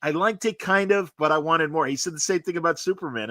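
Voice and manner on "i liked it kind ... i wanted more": imitating friend. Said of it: "and I'm like".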